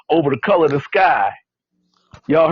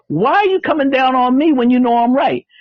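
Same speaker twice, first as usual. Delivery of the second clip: higher-pitched, puzzled protest; perplexed; 7 semitones higher than usual. Acted. Tiger questioning the lion's scolding, perplexed. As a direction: play the wronged tiger, baffled. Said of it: "like, perplexed".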